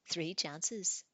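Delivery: lightly voiced troll, pleased with its rules; eager troll. Troll telling Tanith the rules, eager and loud.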